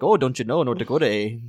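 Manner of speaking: imitating the pastor's North Dakota accent, lightly voiced; a hint of the preacher from North Dakota. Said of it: "the pastor was originally from North Dakota".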